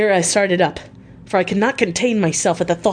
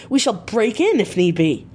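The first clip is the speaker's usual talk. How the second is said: a touch of impatient crying out; eager cry; 4 semitones higher than usual. Acted. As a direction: blurt it out raised and eager. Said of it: "I cried".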